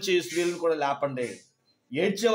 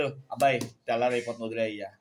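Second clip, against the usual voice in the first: God speaking; 8 semitones lower than usual. Retold or imitated. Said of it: "దేవుడు అంటాడు".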